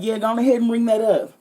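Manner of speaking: a hint of an Indian accent from a pushy customer. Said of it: "I don't do an Indian accent well".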